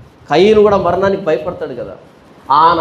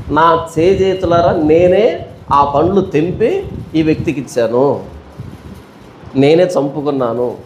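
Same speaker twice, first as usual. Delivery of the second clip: Eve's lament; 3 semitones lower than usual. Retold or imitated. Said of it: "ఆ రోజు అర్థమైంది హవ్వకి".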